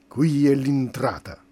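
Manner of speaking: grido. Acted. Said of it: "gridò".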